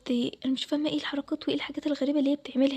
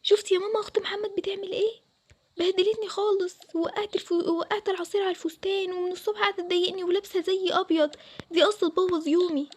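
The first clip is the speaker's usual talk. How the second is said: higher whiny voice near tears; tearful complaint; 4 semitones higher than usual. Acted. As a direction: pour out the hurt to mom. Bride complains tearfully to mother.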